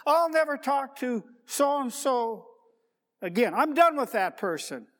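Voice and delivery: stubborn resentful grudge voice; resentful vow. Retold or imitated. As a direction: spit out the grudge like you mean it. Voicing someone holding a grudge.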